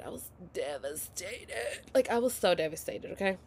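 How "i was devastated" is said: tag. Retold or imitated.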